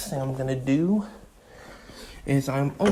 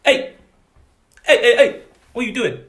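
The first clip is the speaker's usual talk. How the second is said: loud sudden higher shouting hey hey hey; startled shout; 6 semitones higher, 7 dB louder than usual. Real, not acted. To the bird flying off, startled loud shout. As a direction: yell in alarm at the bird.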